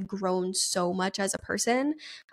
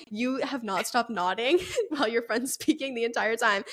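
laughing through the quote; 2 semitones higher than usual. Retold or imitated. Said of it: "And he was like".

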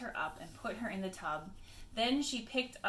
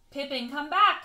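loud call, pitched up; 5 semitones higher, 9 dB louder than usual. Acted. Mabel calls Pippin back in the woods. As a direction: call the dog from afar. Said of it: "called Mabel".

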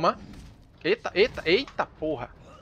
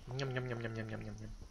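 soft munching nham noises; 6 semitones lower, 14 dB quieter than usual. Pretend. Eating noises while healing.

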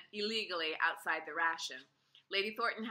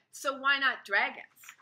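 higher, louder, slower insistence; insistent; 5 semitones higher, 6 dB louder, slower than usual. A narrator's reading. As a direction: press the point hard. Ada pressing her case.

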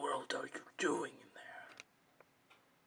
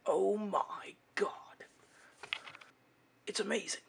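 amazed; 4 semitones higher than usual. Acted. Friend amazed by costume.

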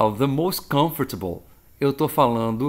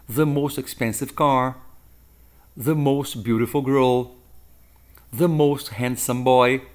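slow examples; slower than usual. Shown as a demonstration. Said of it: "é the most mais um adjetivo".

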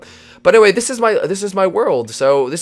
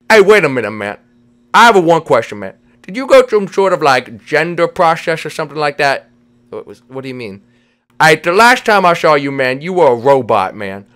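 insistent questioning with slushy s sounds; puzzled cartoon buddy; 6 dB louder than usual. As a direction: play a baffled, slurring goofball. Vinny questions his friend.

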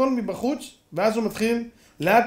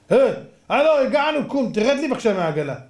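brazen order; 3 semitones higher than usual. Acted. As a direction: throw him off your own wagon with nerve. Cripple orders owner off wagon.

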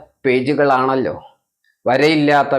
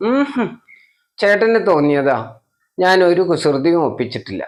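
put-on childish denial; 4 semitones higher than usual. Child denies mischief to brother.

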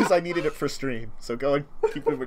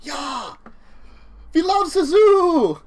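loud, high German thug voice, slow; German accent; 11 semitones higher, 8 dB louder, much slower than usual. Acted. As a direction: bellow it in a thick German accent. Thug voice continues.

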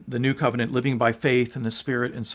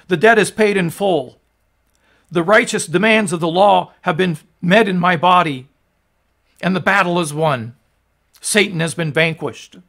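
raised, emphatic voice imitating a cry; 3 semitones higher, 5 dB louder than usual. Preacher voices Jesus on the cross to the congregation, crying out in measured proclamation. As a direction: proclaim it firmly, short of a shout. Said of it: "Jesus crying out from the cross".

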